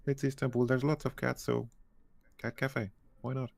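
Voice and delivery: light put-on Turkish accent. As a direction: cafe worker with a Turkish accent. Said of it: "if that was an atrocious Turkish accent".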